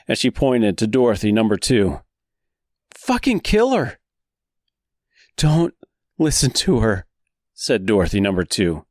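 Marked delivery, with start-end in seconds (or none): 2.9-4.0 very high furious shriek; screaming. Acted. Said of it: "screamed Dorothy number one". 5.4-7.1 higher, urgent plea; pleading. Acted.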